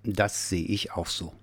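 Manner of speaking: a hint of a rumbling bear; grumbling agreement. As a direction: grumble it thoughtfully. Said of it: "Der Nordpolarbär brummte".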